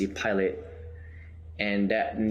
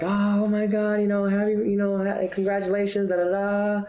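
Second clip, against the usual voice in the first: much higher, louder, bubbly gush; gushing congratulations; 11 semitones higher, 4 dB louder than usual. Retold or imitated. Network execs calling to congratulate, high and gushing. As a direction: gush over the news like thrilled execs. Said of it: "They're like".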